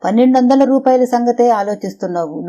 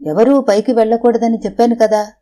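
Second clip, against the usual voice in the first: harshly; 3 semitones higher than usual. Acted. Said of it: "అంది మృదుల కఠినంగా".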